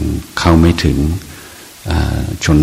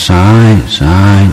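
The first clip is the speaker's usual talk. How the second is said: raised, higher call of left left; 4 semitones higher, 4 dB louder than usual. Retold or imitated. Monk calling out to a walker veering right, raised. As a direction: call the direction to a lost walker. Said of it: "แล้วก็ต้องว่า".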